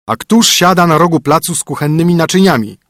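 brisk, bossy husband; stern husband. Acted. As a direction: lay down the rules to the spoiled princess. Husband voice again.

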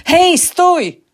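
high, loud shouted order to stop; calling out. A narrator's reading. Security guard orders the fleeing woman to stop, loud high shout. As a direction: yell to halt a runaway. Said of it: "zawołał ochroniarz".

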